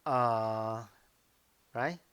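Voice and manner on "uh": UH held low and dipping; a long, low, loud-ish UH; third tone. Shown as a demonstration. Teacher showing the third tone, UH held low. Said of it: "And the third tone is".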